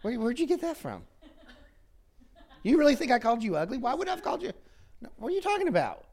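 high, laughing mock disbelief; laughing denial. Denying the insult to Matt, laughing and high. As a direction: scoff it off with a chuckle. Acted denial of calling ugly.

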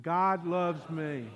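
loud, drawn-out declaration; slow, weighty, forceful affirmation; say it like you mean it. Shown as a demonstration. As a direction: stretch each word out with conviction. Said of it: "Say it like you mean it".

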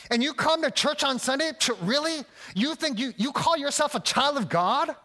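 a preacher voicing the enemy's scorn, not a whisper; enemy's taunt. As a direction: jab each "not" like a sneering accuser. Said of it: "he says".

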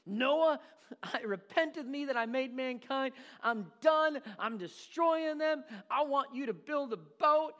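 loud, high playful voice of God; hammed-up voice of the Lord; God speaking. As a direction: boom it out as God telling Noah the plan. God voiced in sermon skit.

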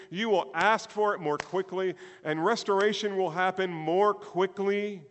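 loud, high, impassioned preaching; full-force preaching. Real, not acted. Preacher urging the congregation on toward growth, full-force preaching. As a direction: preach it out with drawn-out, ringing stresses.

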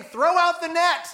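calling out. Retold or imitated. Jesus telling the fisherman in the boat to throw, calling out.

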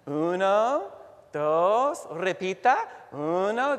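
loud classroom drill; teacher drilling. Retold or imitated. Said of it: "She'd come in".

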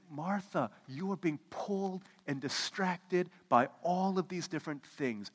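slow, tender naming; a touch of Jesus' gentleness; gentle rebuke. Retold or imitated. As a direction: call her back softly.

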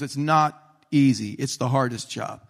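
mildly mock-solemn boss; super serious. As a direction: deliver it with slow, deliberate gravity at the start. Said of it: "He's super serious about it".

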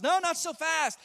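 lightly voiced God overruling his enemies; God's voice. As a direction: declare it slowly with calm authority. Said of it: "God says".

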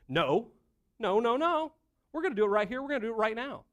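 high, emphatic refusal; acted-out impatient demand; pushy insistence. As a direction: insist loudly, overriding the other person.

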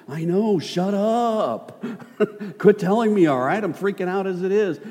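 high, loud, laughing mock outburst; upset Elisha. Elisha snaps at the prophets, mock upset and high. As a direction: snap back, half laughing, freaking out. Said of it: "Maybe he was upset about it".

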